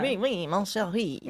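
put-on light comic French accent; a touch of hammy French accent; Peter Sellers. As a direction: imitate a mock Frenchman lightly. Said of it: "Peter Sellers kind of French".

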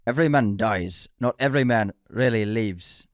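terrible Scottish accent; attempted Scottish accent. Shown as a demonstration. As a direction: have a poor go at a Scottish accent. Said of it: "let me try it with an accent".

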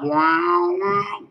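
mouthed wah-wah talk box noise; drawn-out mock guitar "wow"; talk box imitation. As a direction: imitate a talk box, bending the note upward.

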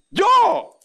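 incredulous squeak. Acted. Preacher imagines himself called.

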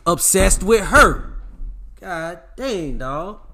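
loud, strained burst of exasperation; exasperated yell at the audience; frustrated outburst. Real, not acted. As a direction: blow up at the guys who chase. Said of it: "I'm getting mad".

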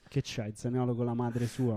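Roman accent, mocking jab; scornful Roman accent. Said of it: "imitando l'accento romano".

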